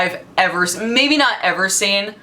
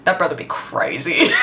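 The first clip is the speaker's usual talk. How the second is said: laughing quote; 4 semitones lower than usual. Retold or imitated. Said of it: "by saying".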